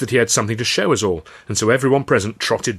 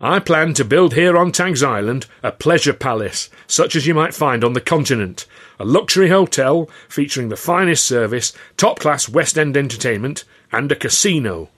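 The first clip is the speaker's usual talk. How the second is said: louder, higher, expansive announcement; grand showman pitch; 5 semitones higher, 5 dB louder than usual. Acted. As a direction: sell the dream to the crowd. Boss unveils pleasure palace plan.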